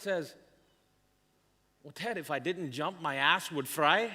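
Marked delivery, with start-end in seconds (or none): 1.8-4.1 imitated Scottish punchline; joking Scottish-accented reply. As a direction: put on a Scottish accent, landing hard on the last words. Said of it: "in his Scottish accent".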